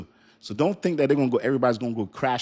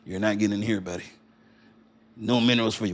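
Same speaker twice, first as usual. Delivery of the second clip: Chinese Texan voice; faster than usual. Retold or imitated. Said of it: "this is a Chinese, uh, Texan".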